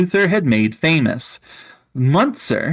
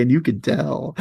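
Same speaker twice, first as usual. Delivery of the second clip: laughing; 6 semitones higher than usual. Real, not acted. Laughing at herself.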